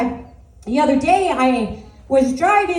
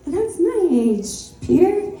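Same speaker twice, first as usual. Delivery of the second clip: nervous laugh; 6 semitones higher, slower than usual. Retold or imitated. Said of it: "I'm like".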